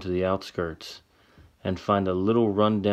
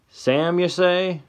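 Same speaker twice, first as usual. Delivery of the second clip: put-on higher old man voice, puzzled; old man surprised; 10 semitones higher, much slower than usual. Old man squints at Sam, high and wondering.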